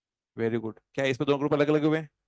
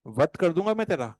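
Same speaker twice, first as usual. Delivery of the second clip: hammed-up film villain threat; mock menacing dialogue line; 3 semitones higher than usual. Teacher hamming a movie dialogue for students. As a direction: growl it like a filmy threat. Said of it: "जैसा dialogue है वैसे बोलना है".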